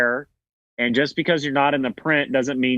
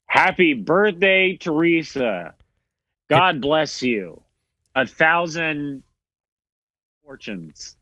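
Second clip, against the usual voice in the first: heartfelt birthday wish; 3 semitones higher than usual. Real, not acted. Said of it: "get a happy birthday wish to Teresa".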